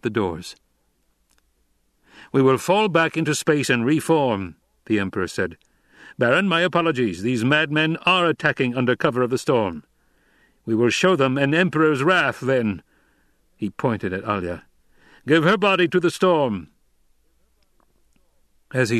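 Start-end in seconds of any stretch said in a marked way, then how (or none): 2.3-4.6 raised, commanding emperor voice; an angry emperor losing patience; cold rasping evil emperor. Acted. The Emperor speaks. 6.2-12.8 raised, commanding emperor voice; an angry emperor losing patience; cold rasping evil emperor. Acted. The Emperor speaks. 15.3-16.7 high, cold commanding order; cold rasping evil emperor. Acted.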